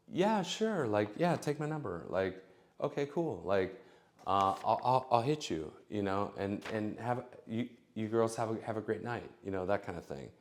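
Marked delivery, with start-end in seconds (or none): 0.1-9.3 mock woman's voice. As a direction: play her agreeing, pitch up. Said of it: "the response you want is".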